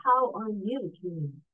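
slow, modulated cheerful greeting. Shown as a demonstration. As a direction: ask it cheerfully, taking your time. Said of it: "modulate the cheerful voice".

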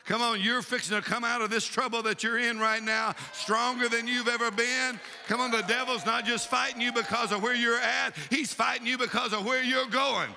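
insistent, driving revival preacher; fired-up preaching. Real, not acted. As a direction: urge the congregation on with conviction. Preaches to the congregation.

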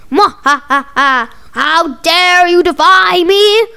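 slow evil monster boom; villain monster voice. Pretend. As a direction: gloat like a movie monster.

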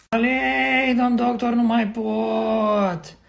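long, drawn-out moan; exhausted labour wail. Acted. Wife in labour to the doctor, exhausted moaning. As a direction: drag the last words out, spent.

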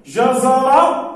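slow, syllable by syllable; drawn-out word. Shown as a demonstration. Teacher repeating جزر for pupils, slow. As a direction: stretch جزر out. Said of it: "ما هي التاء التي سأكتبها هنا".

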